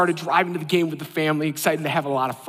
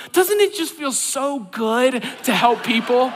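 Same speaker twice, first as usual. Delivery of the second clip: cheerful wife; 6 semitones higher, slower than usual. Retold or imitated. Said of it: "my wife is smiling".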